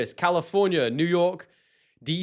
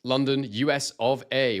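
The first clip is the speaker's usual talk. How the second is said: normal talking voice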